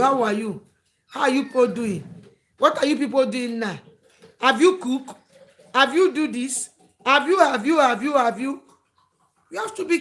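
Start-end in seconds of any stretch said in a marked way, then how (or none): 0.0-8.6 louder, pushy stream of prying questions; nosy caller imitation. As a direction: mimic a meddling friend who keeps phoning and prying. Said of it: "That person that is always calling you".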